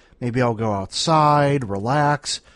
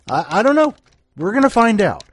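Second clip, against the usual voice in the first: higher and louder, teasing build-up; playful excitement; 7 semitones higher, 4 dB louder, faster than usual. Shown as a demonstration. Host teases the week's theme to listeners, excited. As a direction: sell the mystery with a grin.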